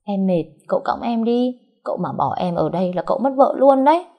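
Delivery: high, sweetly coaxing voice; honeyed wheedling to her husband; sugary sweet. Acted. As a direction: coax him sweetly into carrying her. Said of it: "Cô đổi giọng ngọt xớt".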